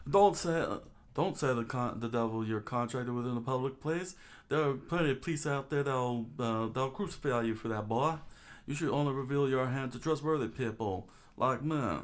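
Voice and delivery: lightly voiced stern adviser; cautioning senior. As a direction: caution a junior in a touch of character voice. Plays a cautioning story figure.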